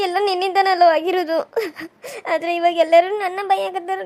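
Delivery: tearful complaint; wife crying to husband about blame. Acted. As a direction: speak through tears. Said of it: "ನೀ ಯಾಕೆ ಇಷ್ಟೊಂದು ಅಳತಿದಿ?".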